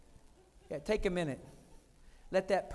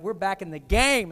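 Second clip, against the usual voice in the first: We're back in the game, louder, landing hard on game; proud wife calling it out; excited announcement; 2 semitones lower, 9 dB louder than usual. Retold or imitated. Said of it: "And she said it like that".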